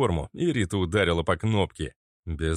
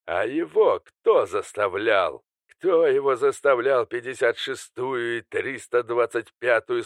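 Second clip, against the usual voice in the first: villain voice; 4 semitones higher than usual. Acted. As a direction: play a cornered, bitter villain. Villain Alister's accusing speech.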